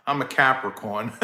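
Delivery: chuckling at the zodiac question; laughing. Real, not acted. Laughing while answering chat question.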